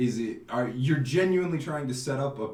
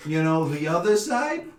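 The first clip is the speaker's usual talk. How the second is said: put-on Italian accent. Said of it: "I do one Italian accent".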